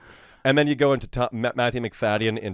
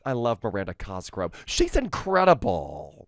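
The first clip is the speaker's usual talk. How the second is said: Tim Cook; 3 semitones higher than usual. Retold or imitated. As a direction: sell the product like a stage announcement. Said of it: "Tim, as in Tim Cook".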